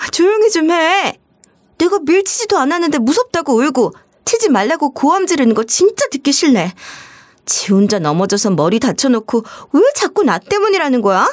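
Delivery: spiteful sister-in-law complaining on a recording; irritated sister-in-law. Acted. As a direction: sneer at the old mother, fed up. Sister-in-law recorded venting at mother.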